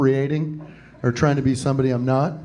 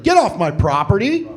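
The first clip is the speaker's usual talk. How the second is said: higher-pitched indignant call; mock yell; 5 semitones higher than usual. Pilgrim to British guy on his property, mock yell. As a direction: order off a trespasser, half in earnest.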